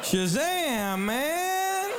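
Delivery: high, loud, laughing whoop; amazed exclamation. Retold or imitated. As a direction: burst out in disbelief. Father's amazed outburst.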